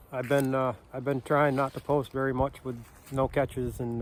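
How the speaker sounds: shaky voice from the cold; shivering. Real, not acted. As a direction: talk while freezing and shaking. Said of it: "So I'm shaking like crazy".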